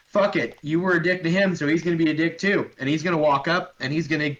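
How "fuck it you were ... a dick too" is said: a light gruff orc voice, fed up; an orc deciding on petty revenge; spiteful orc. Acted. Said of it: "Gormok ... decides".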